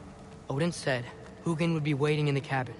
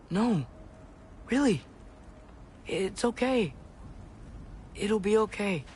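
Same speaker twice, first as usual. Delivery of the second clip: higher-pitched, coaxing comfort; reassuring; 6 semitones higher than usual. Acted. Boy calming his animals before he leaves, reassuring. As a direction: soothe them with a lifted, gentle voice.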